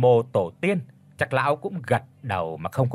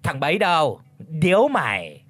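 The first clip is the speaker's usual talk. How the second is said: calling out; 2 semitones higher, 3 dB louder than usual. Acted. Old Chánh calls the servant boy for his pipe, raised. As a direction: bark an order for his pipe. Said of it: "lão quát lên".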